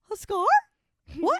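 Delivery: mock horror at the word scar; retold alarm. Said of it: "And I'm like".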